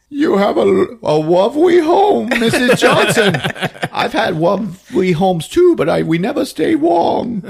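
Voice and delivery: high, honeyed and sinister; sweet menace. Acted. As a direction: purr politely while threatening. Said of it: "And she's all sweet".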